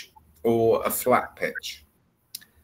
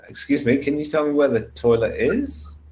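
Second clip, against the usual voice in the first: polite question with "is" shooting up; rising tone; 3 semitones higher than usual. Shown as a demonstration. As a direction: climb sharply on the final "is". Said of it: "It's a rising tone there".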